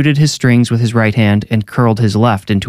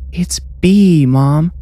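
put-on high child's correction; a child pointedly putting her mother right, pitched up; girl correcting; 7 semitones higher, much slower than usual. A narrator's reading. Neve correcting Mom on her friend's name, high girlish voice. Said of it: "Neve corrected".

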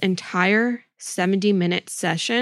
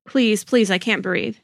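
mild pleading; 2 semitones higher, 3 dB louder than usual. Acted. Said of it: "And I'll be Candace".

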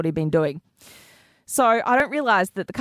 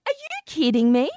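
higher-pitched, mildly indignant challenge; retold indignation; 4 semitones higher than usual. Girlfriend scolds boyfriend over timing, retold indignation. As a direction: scold a partner in retelling. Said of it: "list of names I was angry at".

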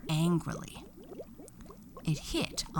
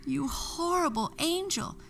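angry shout; 12 semitones higher than usual. A narrator's reading. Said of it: "Broccolina shouted".

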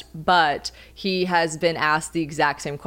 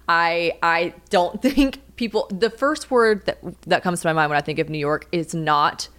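ordinary talk

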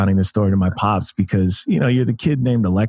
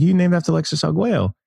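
Mike Tyson impression; 9 semitones higher than usual. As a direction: pitch way up like a famous heavyweight with a high voice. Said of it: "that's my terrible Mike Tyson impression".

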